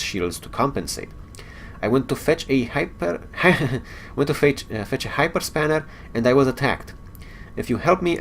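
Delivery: game dialogue read in a light character voice; Scotty, no accent. Acted. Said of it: "Can't do it, on the spot".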